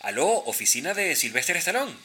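lightly voiced receptionist answering; secretary answering phone. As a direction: pick up like an office secretary. Skit phone call, secretary.

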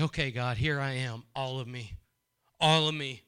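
low, hushed prayer, trailing off; a lightly voiced humble prayer; prayer of surrender. Shown as a demonstration.

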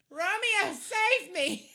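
very high, loud swooning plea; dramatic high "Romeo, save me"; pop-singer pose. Retold or imitated. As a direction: belt it like a lovestruck heroine. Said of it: "I was like".

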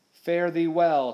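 slow, loud, drawn-out farewell; high, ringing taunting call. A narrator's reading. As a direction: call across the water in triumph. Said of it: "Slank called out".

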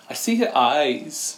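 slow, drawn-out creepy line; mock-eerie, very slow delivery; imagined creepy child. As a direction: lightly imitate a child, stretching each word. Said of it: "It would be worse if he said".

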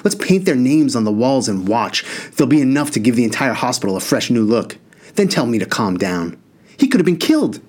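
high, heated rant; railing at his parents, voice up; outburst. Acted. Enraged brother at hospital bed.

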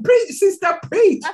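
laughing high "preach, sister, preach"; laughing repeat. Retold or imitated. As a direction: echo the cheer through laughter. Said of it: "Where did that come from?".

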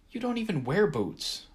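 exasperated eye-roll retort. A narrator's reading. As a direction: sigh it out, unimpressed. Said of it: "rolling my eyes".

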